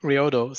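Reodo said as ree-OH-doh, first syllable ree; Reodo, clearly spelled out: ree-oh-doh; careful name pronunciation. Shown as a demonstration. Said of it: "how do I pronounce your last name".

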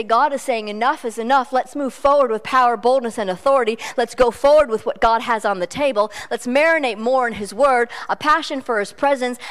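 loud, driving pulpit call to move forward; rally the church with a bold, loud voice; forceful preaching. Acted.

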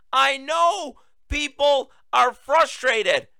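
high, slow mock Biden quote. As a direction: slowly parrot his line back in mockery. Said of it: "What was that?".

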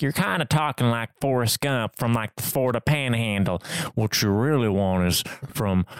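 lightly put-on Southern accent; Andy's coaching quote in a Southern lilt. Quoting The Office to co-hosts in a Southern accent. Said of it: "I kinda like a Southern accent".

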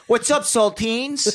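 high, slow taunting voice; a put-on bully greeting, high and slow; mocking Tony. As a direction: stretch it out high and teasing. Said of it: "Tony Bruno's just like".

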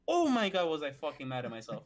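exasperated burst that drops away; mad at self. Retold or imitated. Lifter tells friends about failing the lift, mad at self. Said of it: "I was so fucking mad".

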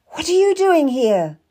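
high, loud challenge; demanding. A narrator's reading. Narrator confronts Mistress Stab at the queen's door, demanding. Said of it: "I demanded".

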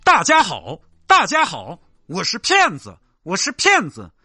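sing-song recorded ad blaring at the beggar; loudspeaker playback. Acted. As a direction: play it like a looped street speaker. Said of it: "试一下喇叭".

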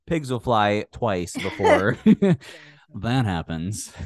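laughing sarcasm. Real, not acted. Sarcastic dismissal.

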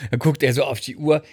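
ordinary delivery

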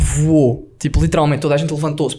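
ordinary talk

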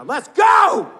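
high, explosive shout at the game; fan's yell. Acted. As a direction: erupt like a drunk sports fan. Drunk fan erupts at game.

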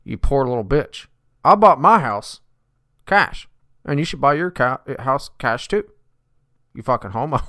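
over-the-top mock talk-radio rant; Dave Ramsey impression. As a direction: ham up a smug finance guru berating the caller. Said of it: "I'm Dave Ramsey".

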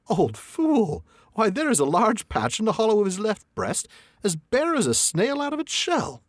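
high, scornful inner voice; Bilbo's private scorn. A narrator's reading. Hobbit mocking the dragon in his head. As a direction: sneer to yourself. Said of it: "what he thought inside was".

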